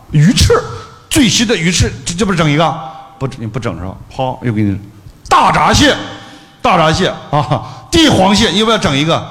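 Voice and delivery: playful mock upselling pitch; pushy waiter. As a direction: mimic a waiter shoving seafood at you.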